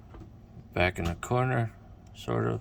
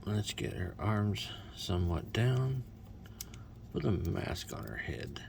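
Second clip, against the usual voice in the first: whisper; 7 dB quieter than usual. Real, not acted. Whispered aside while posing.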